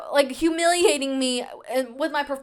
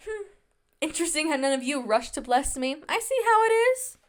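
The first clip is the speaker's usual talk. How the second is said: sarcastic; 2 semitones higher than usual. Retold or imitated. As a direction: feign a slight with dry sarcasm. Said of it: "Can you sense the sarcasm in my voice?".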